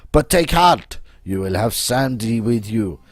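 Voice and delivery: put-on dramatic French-accented persuader. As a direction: recruit them in a theatrical French accent. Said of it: "my accent".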